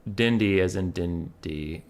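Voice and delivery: Dindy said slowly, DIN-dee; pronunciation of Dindy. Shown as a demonstration. Streamer passing on how a name is said, slow, careful Dindy. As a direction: spell out Dindy by sound, unhurried. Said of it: "It's pronounced".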